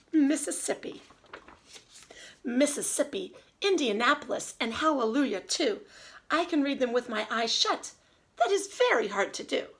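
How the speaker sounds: put-on lively storybook read-aloud for kids; reading to children. Teacher reading Dr. Seuss to her class, lively and sing-song. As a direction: read the rhymes with bounce and expression.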